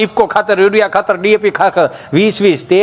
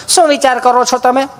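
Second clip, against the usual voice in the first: lightly voiced sweet nurse, a touch higher; 5 semitones higher than usual. Nurse asking Gabho about his dose, sweetly voiced. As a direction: ask it the way a kind nurse would. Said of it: "nurse બેન".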